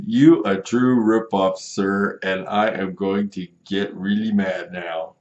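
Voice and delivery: loud accusing threat; mock angry customer. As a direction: play the buyer getting mad. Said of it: "he's getting mad".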